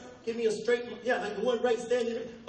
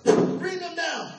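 slow, louder mock-stern order; stern command; 6 semitones higher, 5 dB louder, much slower than usual. Eye doctor repeating his order to the patient, stern and slow. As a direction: bark the order slowly, higher. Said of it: "he goes".

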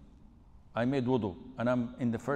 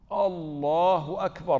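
slow, louder Allahu Akbar; drawn-out takbir; 2 semitones higher, 7 dB louder, slower than usual. Retold or imitated. Mimicking the worried man's repeated takbir, slow and louder. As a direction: stretch it out again, more insistent.

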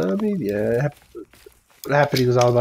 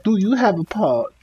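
imitating a Danish accent; mock Danish accent; 6 semitones higher than usual. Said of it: "Did you just do a Danish accent?".

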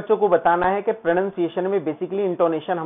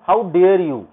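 "how dare you" arched up to "dare", then down; climbing intonation; 4 dB louder, much slower than usual. Shown as a demonstration. Teacher shows how the pitch climbs, peak on "dare". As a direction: climb into a strong "dare", let "you" fall. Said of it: "ऐसे चढ़ते जाएंगे ऊपर ऐसे".

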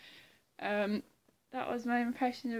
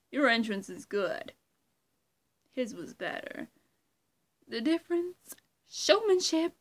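smug villain voice, louder, with a hushed start; Riddler impression; 2 semitones higher, 8 dB louder than usual. Creator performing Riddler lines, smug and loud. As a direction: preen like a showman. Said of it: "impression of the Riddler".

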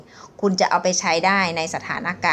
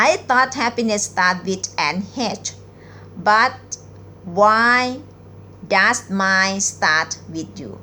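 very slow reading; much slower than usual. Shown as a demonstration. Teacher reading a pickup line very slowly to viewers. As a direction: read each word out slowly, with pauses. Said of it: "หนิงจะอ่านช้าๆนะคะ".

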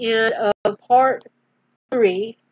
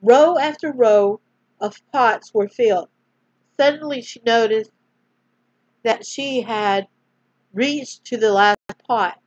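storyteller reading aloud; story narration; 4 dB louder than usual. A narrator's reading. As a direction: gently read bedtime-story voice. Reads a Bible story aloud.

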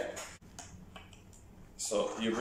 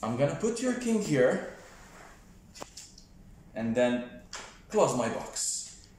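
put-on kids party magician. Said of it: "I'm the magician".

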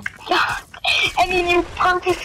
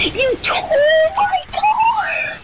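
exasperated outburst; 14 semitones higher, much slower than usual. Real, not acted. Furious after losing the fight.

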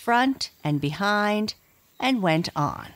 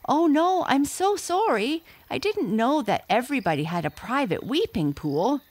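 much higher, hurried, anxious voice; frightened apology; 8 semitones higher than usual. Acted. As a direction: plead in a scared rush. Father apologizes, dangling in air.

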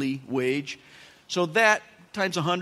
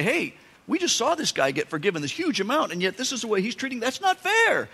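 rushing faster, ending on a high indignant squeal; tattletale complaint; 5 semitones higher than usual. Acted. Other servants tattling to the master, rising to a high whine. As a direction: complain like kids running to tell. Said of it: "They were gonna say".

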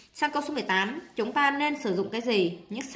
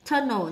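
"tunnel" stressed on its first syllable. Shown as a demonstration. Teacher marking word stress for students, first-syllable stress on "tunnel". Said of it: "nhấn âm một".

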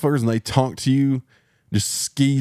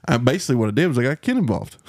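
ordinary talk

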